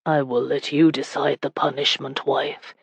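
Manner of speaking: low, husky murmur for the husband. Acted. Husband lets wife choose punishment, husky. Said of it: "he said in a husky voice".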